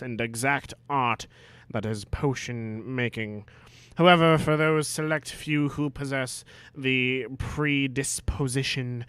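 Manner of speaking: a hint of a haughty potions master; lightly voiced stern Snape. Snape lecturing the class, lightly voiced. Reads Snape's speech in character.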